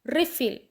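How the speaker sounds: रिफिल with stress on RE; रिफिल: REE-fil, noun stress on the front; stress on first syllable. Shown as a demonstration. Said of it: "री के ऊपर stress दें".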